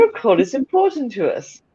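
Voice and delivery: mock switchboard recording, lightly done; telephone voice. Friend teasing Lainey about her posh voice, mock telephone voice. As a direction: imitate a polite hold message. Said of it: "It's Lainey's telephone voice".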